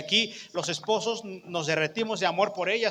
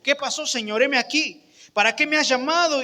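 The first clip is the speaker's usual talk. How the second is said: put-on eager young Samuel; 5 semitones higher than usual. Samuel answering Eli's call.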